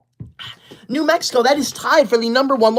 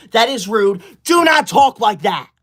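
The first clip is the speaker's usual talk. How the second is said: mock scolding shout. Scolding viewer over rude comment.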